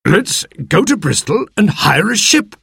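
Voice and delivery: excited cry. Acted. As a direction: burst out with the plan, thrilled. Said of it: "cried the squire".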